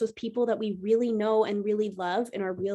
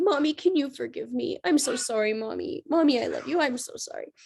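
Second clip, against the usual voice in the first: crying daughter; 3 semitones higher than usual. Retold or imitated. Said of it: "then she started to cry and she said".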